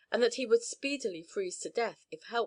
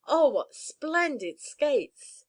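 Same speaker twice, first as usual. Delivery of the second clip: thrilled exclamation; 6 semitones higher, 5 dB louder, much slower than usual. Acted. Child thrilled by Christmas gift.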